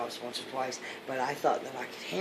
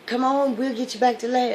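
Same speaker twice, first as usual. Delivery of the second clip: rescuer calling out; 8 semitones higher, 7 dB louder than usual. Acted. Helicopter rescuer calls down.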